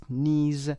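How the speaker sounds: "knees" starting straight on n; teacher's clear "knees", k silent. Shown as a demonstration. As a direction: say "knees" with no k sound. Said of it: "کی تلفظ نمیشه".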